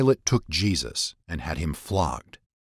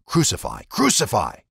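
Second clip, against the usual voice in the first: crowd shouting; 3 semitones higher, 3 dB louder than usual. A narrator's reading. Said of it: "they shouted".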